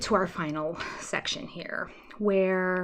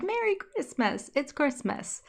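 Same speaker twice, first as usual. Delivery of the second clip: cheery greeting; 5 semitones higher, 4 dB quieter than usual. Retold or imitated. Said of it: "it's still like".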